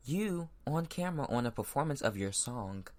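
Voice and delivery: real anger breaking through; angry outburst. Real, not acted. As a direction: call them out in anger. Angry rant about the performance.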